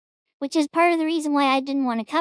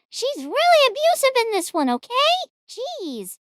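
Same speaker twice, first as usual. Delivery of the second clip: exasperated; 12 semitones higher than usual. Real, not acted. Exasperated outburst about AI.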